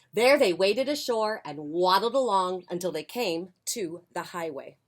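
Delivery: lively picture-book reading; expressive storytime voice; story narration. A narrator's reading. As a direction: read it aloud to young children. Reads picture book to children.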